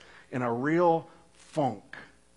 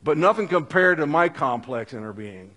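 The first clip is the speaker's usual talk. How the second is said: louder, grandly smug lines to God; mock self-absorbed prayer; 3 semitones higher, 5 dB louder, faster than usual. Preacher mocking a self-absorbed believer, smug and loud. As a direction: puff up like someone unimpressed with creation.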